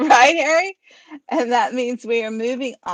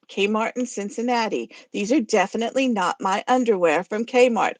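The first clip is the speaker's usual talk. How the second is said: two-voice skit argument. Acted. Reading a skit alone, arguing as Gilda and Godzilla. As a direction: bicker back and forth in two voices. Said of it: "Harry was gonna do Gilda's voice".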